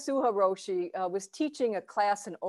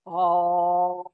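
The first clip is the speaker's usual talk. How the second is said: louder held oh resonating from the belly; hara voice vowel; 4 semitones lower, 6 dB louder than usual. Shown as a demonstration. Teacher demonstrating a hara vowel for students, held belly-resonant oh. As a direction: sing out oh as if your belly had a mouth. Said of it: "Now imagine only your hara could speak".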